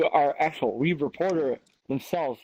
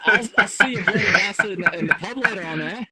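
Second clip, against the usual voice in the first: higher mock-Scottish banter; Scottish accent; 4 semitones higher than usual. Anchor promising to meet in the pub, mock Scottish. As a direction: sign off like a rowdy Scot. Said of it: "everybody's reverted to a Scottish accent".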